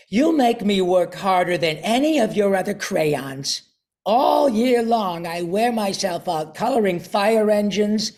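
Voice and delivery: lightly voiced complaining crayon; a touch of a worn-out crayon pleading; tired red crayon. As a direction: grumble like an overworked crayon. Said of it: "And the crayon says".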